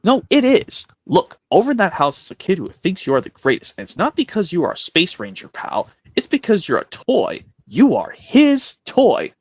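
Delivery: Woody voice. Acted. Woody encouraging Buzz.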